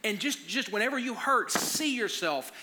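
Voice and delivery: put-on high-pitched, rousing speech to a child; retold fired-up dad speech; motivational pep talk. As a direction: paint the victory like a movie coach. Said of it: "like Rocky, like giving my son a speech".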